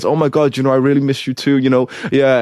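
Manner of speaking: lightly voiced swooning ex; mock sweet girlfriend. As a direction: parody her sugary I miss you too. Mocking the girl's sweet reply.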